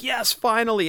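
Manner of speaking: high-pitched burst of relieved excitement; excited rush. Retold or imitated. Collector imagines finding long-sought figures on the pegs, excited rush. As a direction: act out finally finding it, voice jumping up. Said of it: "You just feel that rush".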